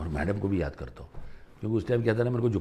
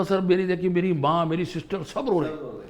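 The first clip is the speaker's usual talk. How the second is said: emotional retelling; 10 semitones higher, 5 dB louder than usual. Retold or imitated. Candidate recounting family crying.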